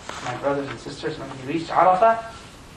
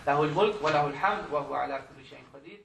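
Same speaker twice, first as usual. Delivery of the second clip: rapid dhikr recitation; much faster than usual. Shown as a demonstration. Preacher recites the dua for the congregation, rapid. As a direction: rattle off the remembrance. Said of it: "please memorize this".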